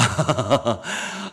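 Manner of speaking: short low chuckle mid-quote; amused little laugh; soft chuckle. Acted. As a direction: laugh softly at the pity. Laugh inside acted quote.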